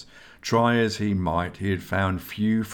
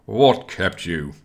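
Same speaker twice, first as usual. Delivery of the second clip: slow, louder, annoyed demand; annoyed grunt; 6 dB louder, slower than usual. Acted. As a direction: bark it at the latecomers, slowly. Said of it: "Esgar grunted in annoyance".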